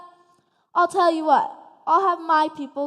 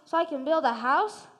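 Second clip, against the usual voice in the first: whiny pig voice; 3 semitones lower, 5 dB quieter than usual. Acted. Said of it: "she asked the stick merchant".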